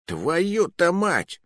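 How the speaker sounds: weary sigh. Acted. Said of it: "вздохнул Джузеппе".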